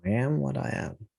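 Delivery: a hint of a cartoon sailor catchphrase; mild cartoon sailor impersonation; Popeye. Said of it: "your best Popeye accent".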